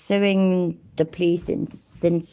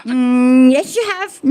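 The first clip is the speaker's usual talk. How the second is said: laughing retort; 8 semitones higher, 4 dB louder, slower than usual. Real, not acted. Laughing retort to streamer clip.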